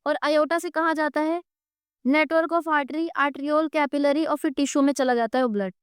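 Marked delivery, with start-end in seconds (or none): 2.1-4.3 drawn-out, slow dictation. Shown as a demonstration. Teacher dictates the term to students, slowly. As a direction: say it slowly so they can write it down.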